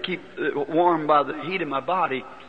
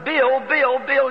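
calling out; 8 semitones higher, slower than usual. Retold or imitated. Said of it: "just as loud as you can".

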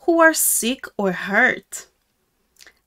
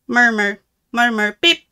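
meerkat sounds; 4 dB louder than usual. Pretend. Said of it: "I make funny sounds".

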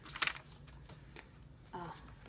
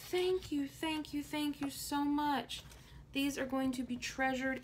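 high, repeated delighted thanks; gushing thanks; 6 semitones higher than usual. Real, not acted. Thanking viewer for sent mail.

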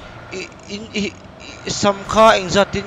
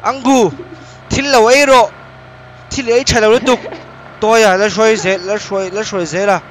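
loud call; 5 semitones higher, 5 dB louder than usual. Real, not acted. Loud repeated calling in game.

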